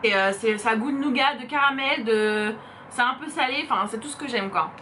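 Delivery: words round a bite of food; chewing while talking. Real, not acted. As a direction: mouth full. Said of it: "Je vais pas parler avec la bouche pleine".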